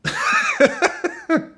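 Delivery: high-pitched cackling laugh; real burst of laughter. Real, not acted. Host cracking up at a footballer's poem, real laughter. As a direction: crack up helplessly.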